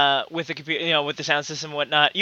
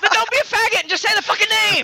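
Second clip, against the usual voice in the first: angry; faster than usual. Acted. Mock outburst at cohost.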